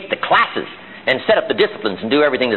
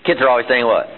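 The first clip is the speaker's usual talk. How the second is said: normal talking voice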